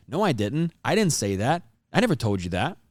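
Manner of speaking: mild defensive denial. Shown as a demonstration. Demo of how someone denies it, mildly defensive. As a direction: brush off the claim, lightly defensive. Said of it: "The best example of a defensive tone in my mind".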